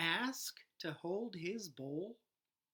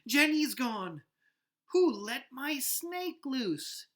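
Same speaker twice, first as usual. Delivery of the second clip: loud, high panicked shout; frantic girl's shout; 6 semitones higher, 7 dB louder, slower than usual. Acted. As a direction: yell it in alarm for the lost snake. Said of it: "Emily shouts".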